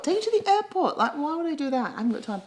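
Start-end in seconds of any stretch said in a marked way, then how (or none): 0.0-1.0 high, scoffing repeat of the offer; incredulous echo. Acted. Scoffing at her own airport offer, pitched way up.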